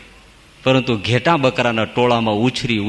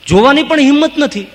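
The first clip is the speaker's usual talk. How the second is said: dramatic exclaim; 11 semitones higher, 4 dB louder than usual. A narrator's reading. Narrating lion's fear.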